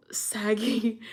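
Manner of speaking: "saggy" whispered under the breath. Shown as a demonstration. Rereading the word to herself in a whisper. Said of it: "soggy cereal is disgusting".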